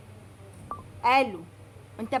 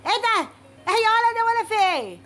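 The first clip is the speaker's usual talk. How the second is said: much higher and louder, outraged disbelief; shocked outburst; 8 semitones higher, 5 dB louder than usual. Acted. Customer reacting to the courier hanging up, shocked shout. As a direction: yelp at the dead phone.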